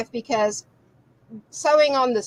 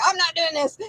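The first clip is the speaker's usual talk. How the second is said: raised-pitch mock frustration; frustrated; 6 semitones higher than usual. Worried teacher imagines her student quitting, mock frustrated. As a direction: imitate someone giving up in frustration. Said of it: "gonna get frustrated and say".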